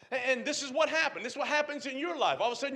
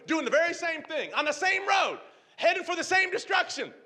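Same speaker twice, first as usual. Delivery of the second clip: God's voice; 5 semitones higher, 4 dB louder than usual. Acted. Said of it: "So God says".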